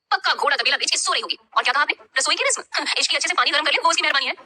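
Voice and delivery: put-on high, cheeky girlish voice with a laugh; mock the lazy friend with a chuckle; teasing young girl. Misha teasing the family about sleepy Ishki, high and cheeky.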